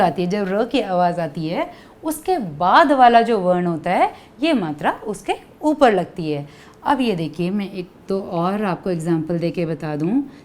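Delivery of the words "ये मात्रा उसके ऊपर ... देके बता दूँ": ordinary talk, nothing marked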